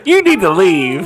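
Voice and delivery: high, loud, through laughter; mock banishing, helpless with laughter; laughing outburst. Real, not acted. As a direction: blurt it out high while cracking up. Cracking up at the joke.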